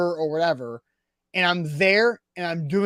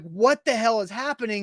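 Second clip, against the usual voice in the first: higher-pitched mock alarm; retold freak-out; 4 semitones higher than usual. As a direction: act out bewildered panic. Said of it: "freaking out".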